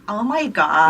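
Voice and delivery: mock valley girl American accent. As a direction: put on a valley girl drawl. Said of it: "Valley girl accent".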